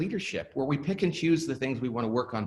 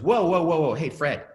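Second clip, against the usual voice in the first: raised, mildly loud mock interruption; acting out a boss stepping in; interjecting to stop someone; 3 semitones higher, 4 dB louder than usual. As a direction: cut in to halt a rambling colleague. CEO cutting off a meeting dominator.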